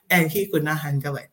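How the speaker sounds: ordinary talk, nothing marked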